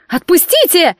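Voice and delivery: high-pitched mock wail; wailing cry. A narrator's reading. Captive Nate begs to be let go, wailing. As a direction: cry out to be released. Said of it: "загласил Нейт".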